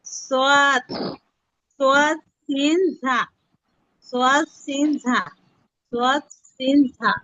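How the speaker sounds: sounding out সোয়াদ সিন ঝা for the class; Arabic letter sounds. Shown as a demonstration. Quran tutor demonstrating letter names to sisters, deliberate articulation. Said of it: "জিহ্বার আগা সামনে নিচে দুই দাঁতের আগার সঙ্গে লাগাইয়া".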